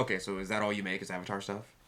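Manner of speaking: put-on sarcastic, dismissive, very snarky tone. Retelling how a person at the booth asked a question: imitating a snarky tone. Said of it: "he said it in a very snarky way".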